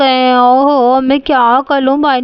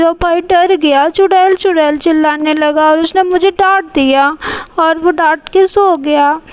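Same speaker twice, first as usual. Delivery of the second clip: put-on tearful whining child; 2 semitones higher than usual. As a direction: sob out the story to mum. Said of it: "मैं रो रही हूँ".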